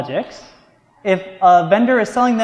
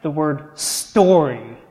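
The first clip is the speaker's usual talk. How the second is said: "story" drawn out slowly for emphasis; slow down and set "story" apart; stress on story; 2 semitones lower, slower than usual. Real, not acted. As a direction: lean on the word "story" and stretch it. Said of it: "I really want to emphasize".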